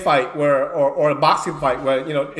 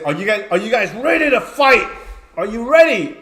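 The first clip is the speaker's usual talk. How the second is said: referee hype call; 4 semitones higher, 4 dB louder than usual. Retold or imitated. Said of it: "we say".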